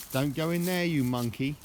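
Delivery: telling off a naughty dog; calling out. Real, not acted. Owner calling his dog away from the slime, loud and high.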